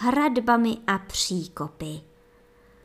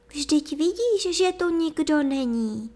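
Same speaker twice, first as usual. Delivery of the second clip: calm voice; 7 semitones higher than usual. A narrator's reading. Princess calmly denies anyone is there to the sorcerer. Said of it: "řekla princezna pokojným hlasem".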